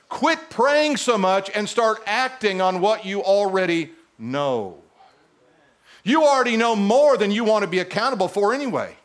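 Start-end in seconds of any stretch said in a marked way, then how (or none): 0.1-4.8 slow, deliberate "Quit praying so much"; slower repeat. Shown as a demonstration. Preacher repeating it slowly for a quiet crowd. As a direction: drag it out so it sinks in. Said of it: "You got kind of quiet".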